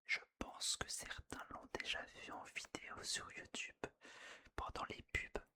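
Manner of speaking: close-mic ASMR whisper; right in your ear. Real, not acted. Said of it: "A S M R". (chuchotement tout près de l'oreille)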